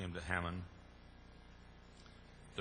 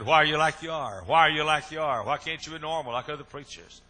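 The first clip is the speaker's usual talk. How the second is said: much higher, louder plea; high exasperated shout; 7 semitones higher, 11 dB louder than usual. Retold or imitated. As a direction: yell it at the preacher in frustration. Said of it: "He said".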